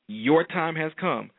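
very slow, weighty declaration; slow proclamation. Acted. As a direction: drag each word out for weight. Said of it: "I'll say it again".

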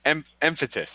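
"emphasis" said as em-fa-tis; swimmer's mispronunciation. Retold or imitated. Cohost repeating the swimmer's slip, "emphasis" as emphatis. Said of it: "This is how he said it".

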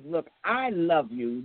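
slow, sincere I love you; slowly and tenderly; tender affirmation. Real, not acted. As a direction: say it gently to the listeners. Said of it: "let me give you words of affirmation".

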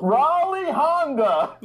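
high, slow laughing dealer cry; car dealer ad voice. Pretend. First dealer-name take.

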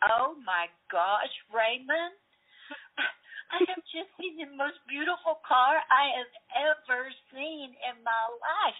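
high, slow gushing over a car; swooning at the car she spots; excited gush. Retold or imitated. Telling her husband on speakerphone, slow excited gush.

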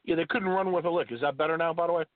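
muffled, as if underwater; phone line sounding underwater. Real, not acted. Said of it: "still sound like you're underwater".

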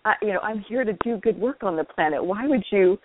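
retold "why me?", leaping high on the final why; why-me protest. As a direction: plead your case to God, half in jest. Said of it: "have I done the "why me?" question".

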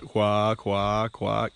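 slow, drawn-out quack notes. Shown as a demonstration. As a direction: let each quack run on too long. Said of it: "No ducks run their notes through like".

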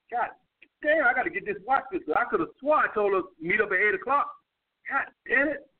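muttered mock complaint about the watch, pitched a bit up; sarcastic, authoritative aside about her lateness. Shown as a demonstration. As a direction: grumble for her to overhear, dry and sarcastic. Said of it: "in, like, a sarcastic, authoritative fashion".

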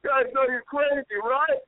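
high-pitched stranger's voice; imitated bystander. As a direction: voice the bemused guy by the wall. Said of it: "and he's like".

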